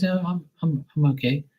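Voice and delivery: high, frail imitation of an elderly mom; old mother voice. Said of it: "She goes".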